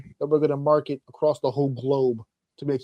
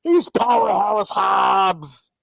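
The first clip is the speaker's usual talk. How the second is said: sarcastic; 3 semitones higher, 4 dB louder, much slower than usual. Retold or imitated. Mocking fans' logic.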